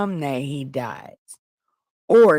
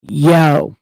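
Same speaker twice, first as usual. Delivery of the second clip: mock call; 9 dB louder than usual. David calls across to Abner.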